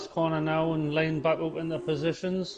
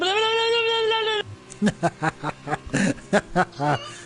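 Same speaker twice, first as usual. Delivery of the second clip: robot voice. Pretend. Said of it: "I'll do my best robot impression".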